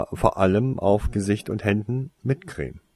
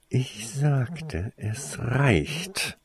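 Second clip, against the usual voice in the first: quiet, raised-pitch icy order; softly spoken, freezing authority; icy command; 5 semitones higher, 4 dB quieter, much slower than usual. A narrator's reading. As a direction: order it with cold restraint. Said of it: "befahl Snape voll eisiger Kälte".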